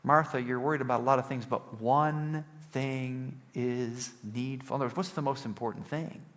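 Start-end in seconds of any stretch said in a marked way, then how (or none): 0.0-4.8 understated, soothing reply that slows right down; loving reproof. Retold or imitated. Jesus lovingly answering worried Martha, mild loving reproof. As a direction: start briskly, then gently stretch out the last phrase. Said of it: "And Jesus lovingly says to her".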